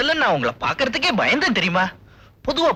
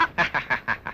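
laugh; 7 semitones lower, 7 dB quieter than usual. Acted. Boyfriend laughs after offering a bite.

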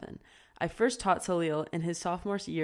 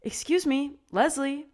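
angry retort; 10 semitones higher, 6 dB louder than usual. A narrator's reading. Pip confronts cashier.

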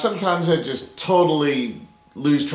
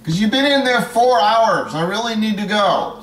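impatient high voice; 6 semitones higher, 4 dB louder than usual. Acted. Impatient person waiting for bathroom.

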